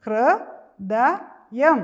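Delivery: ഹൃദയം drawn out very slowly and loud; teacher spells out ഹൃദയം slowly for the class; slow sounding out. Shown as a demonstration. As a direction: stretch every syllable of ഹൃദയം. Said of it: "ഒരു പ്രാവശ്യം കൂടെ പറഞ്ഞേ".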